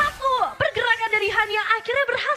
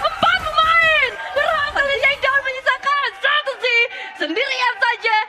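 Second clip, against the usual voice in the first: excited play call; 3 semitones higher, 3 dB louder than usual. Real, not acted. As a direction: call the wipe with rising hype. Caster calling a teamfight wipe.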